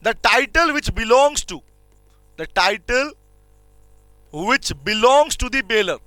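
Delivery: very slow, stretched phrases with pauses; slow dictation. Shown as a demonstration. Teacher dictating a definition for students to copy down. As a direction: dictate it bit by bit. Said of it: "लिख लो इस बात को".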